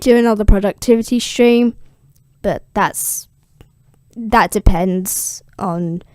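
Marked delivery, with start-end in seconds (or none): 2.4-6.0 whispered aside. Real, not acted. Aside about streaming.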